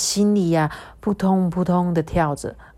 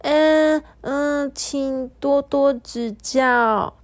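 stunned stammer; 7 semitones higher, much slower than usual. Acted. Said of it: "嘟嘟香惊讶得合不拢嘴".

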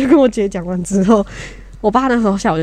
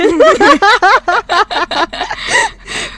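high laugh; 12 semitones higher, 4 dB louder than usual. Real, not acted. Laughing at dad apologising.

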